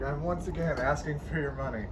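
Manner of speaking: Bernie Sanders impression. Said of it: "freaking Bernie Sanders".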